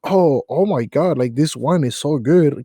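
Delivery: a hint of a fancy upper-class voice; fancy upper-class person. Imitating an Australian customer's fancy nasal talk, lightly hammed-up posh. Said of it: "imagine a fancy upper class person going like".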